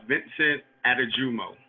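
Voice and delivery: Vincent Adejumo, surname ending in "mo"; name pronunciation demo. Shown as a demonstration. Guest shows host his name, demonstrating Adejumo. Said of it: "why don't you pronounce it for me".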